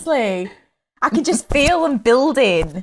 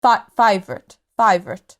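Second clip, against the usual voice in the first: lower-pitched South African accent; 5 semitones lower than usual. Shown as a demonstration. Guest showing friends an accent on request, South African. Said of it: "you like South African? Come on, do a".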